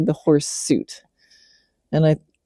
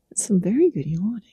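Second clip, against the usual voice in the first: hushed, breathy praise for the horse; whispering to a horse mid-yawn; whispered praise; 4 semitones higher, 6 dB quieter, faster than usual. Real, not acted. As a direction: whisper so you don't break the moment.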